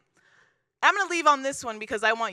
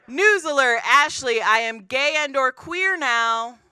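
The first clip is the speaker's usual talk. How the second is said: mock announcement; 3 semitones higher, 4 dB louder, slower than usual. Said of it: "a text message that says".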